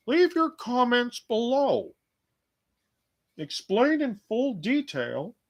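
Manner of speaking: slow, very high mock-sweet request; drawn-out high-pitched singsong; singsong falsetto. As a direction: sing it out slowly in falsetto. Mock plea to viewers in falsetto.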